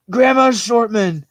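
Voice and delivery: high, drawn-out delighted cry; real burst of excited recognition; excited exclamation. Real, not acted. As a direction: exclaim it slowly and high, thrilled. Delighted reaction to chat's suggestion.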